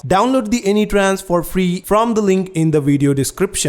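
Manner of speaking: loud, emphatic sponsor spot; sponsor ad read. Acted. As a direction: read it out as a loud product plug. Reads a sponsor ad.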